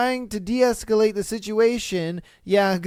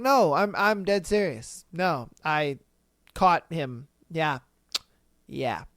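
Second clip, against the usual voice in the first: acted dead-serious confession, dropping lower; straight-faced conviction; 4 semitones lower, slower than usual. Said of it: "such a straight face and such conviction".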